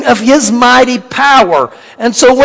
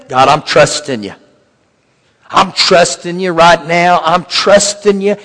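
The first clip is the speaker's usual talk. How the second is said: sincere prayer; 6 semitones lower, 3 dB quieter than usual. Retold or imitated. Prayer voiced to God.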